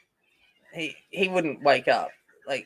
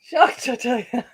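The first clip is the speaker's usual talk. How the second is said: mock shocked; 7 semitones higher, 5 dB louder than usual.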